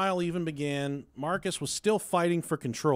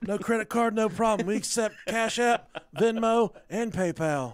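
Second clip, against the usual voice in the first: lawyer commercial voice; 4 semitones higher than usual. Pretend. Continuing mock lawyer ad.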